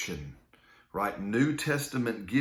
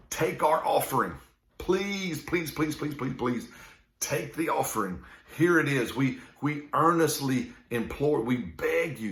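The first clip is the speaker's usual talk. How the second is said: higher, earnest begging, a touch hammed-up; pleading; 4 semitones higher than usual. Macedonian church begging Paul to accept their offering, mock pleading. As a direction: beg them to take the money. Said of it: "They were literally begging Paul".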